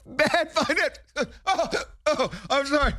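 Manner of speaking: breaking into laughter mid-word; words broken by real laughter; laughing. Real, not acted. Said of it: "Hold on, let me catch my breath".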